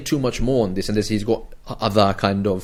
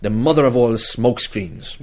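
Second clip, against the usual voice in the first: a barely-there Scottish accent, lightly put on; weak mock Scottish accent for a joke; terrible Scottish accent. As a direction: toss off a half-hearted Scottish accent. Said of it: "somebody in a Scottish accent would say".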